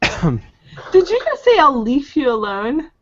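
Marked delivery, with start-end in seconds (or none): 1.6-2.9 mock Canadian accent. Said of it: "making fun of Benji's Canadian accent".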